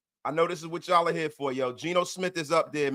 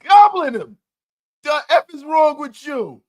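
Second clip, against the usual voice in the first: shouted high and loud, still amused; roaring punchline at a chatter; 8 semitones higher, 10 dB louder than usual. Acted. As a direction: yell the punchline. Laughing roast of chat user.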